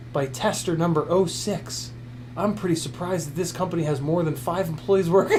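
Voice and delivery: lightly voiced clueless gadget reviewer, mostly his own voice; a hint of a know-nothing reviewer, deadpan; parody YouTube reviewer. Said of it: "I'm impersonating YouTube reviewers".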